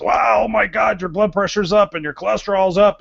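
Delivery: alarmed doctor. Retold or imitated. Doctor's alarmed reaction retold.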